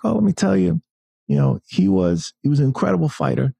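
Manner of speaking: a playful, hammed-up imitation of a famous boxer; Mike Tyson impression. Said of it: "that's my terrible Mike Tyson impression".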